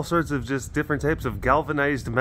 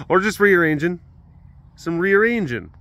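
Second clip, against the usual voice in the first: higher, louder playful correction; amused quip; 6 semitones higher, 6 dB louder than usual. Real, not acted. Joking about the tiger rearranging things, amused. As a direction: tease the tiger's tidying.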